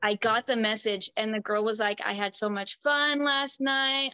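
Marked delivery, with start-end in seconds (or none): 2.0-4.1 imitating other woman. Retells the other girl's message.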